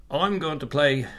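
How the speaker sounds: big, bright presenter announcement; game show host voice. Pretend. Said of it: "That was probably my game show host voice".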